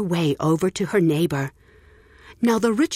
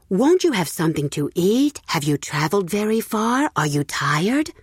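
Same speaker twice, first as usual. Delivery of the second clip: all in one breath; 2 semitones higher than usual. Acted. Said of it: "all in the same breath".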